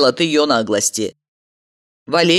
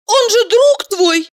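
flustered; 5 dB louder, slower than usual. A narrator's reading. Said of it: "растерялась Валерия".

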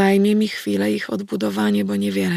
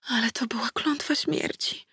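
scared whispered fear; whispered dread from a little girl; frightened whisper; 5 semitones higher, 8 dB quieter than usual. A narrator's reading. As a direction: breathe it out in terror. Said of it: "wyszeptała".

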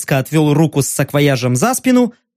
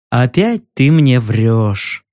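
slow menace; 5 semitones lower, slower than usual. Acted.

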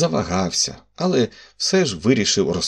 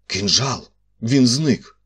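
alarmed report; 4 semitones higher, 3 dB louder, slower than usual. Acted. Commissioner reports vanished dagger.

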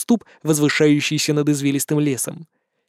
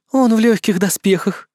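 wry grimace; 5 semitones higher than usual. Acted. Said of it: "скривилась демоница".

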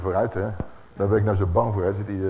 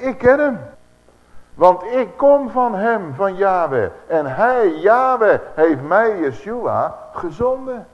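higher and louder, every phrase hammered; ringing proclamation; 6 semitones higher, 4 dB louder, slower than usual. Acted. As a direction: proclaim it like a prophet. Preacher shouts Yeshua's claim. (luid en hoog verkondigd)

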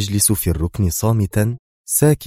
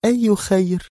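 murmuring; 12 semitones higher than usual. A narrator's reading. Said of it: "متمتمة".

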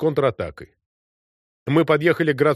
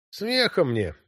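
grieving; 5 semitones higher, slower than usual. A narrator's reading. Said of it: "сказал Грищук горестно".

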